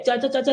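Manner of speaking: "चा" said four times in a row, evenly; repeated cha sound. Shown as a demonstration. Teacher drills the repeated चा sound for students. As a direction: beat out चा, चा, चा, चा. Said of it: "repeat हो गई".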